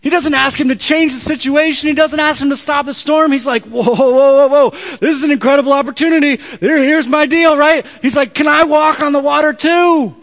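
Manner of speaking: full-voiced, high preacher's shout; loud, high and thrilled, stretching the final words; excited shouting. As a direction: shout it like you've spotted an incredible chance.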